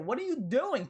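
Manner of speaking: annoyed fan calling out the GM; exasperated question. Real, not acted. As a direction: ask it like you can't believe the mistake. Fan berating the Flyers GM.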